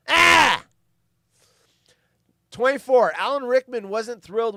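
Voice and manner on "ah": short high shout of "ah"; sudden loud yell. Pretend. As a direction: burst out with a loud yelp. Sudden yelp after joke.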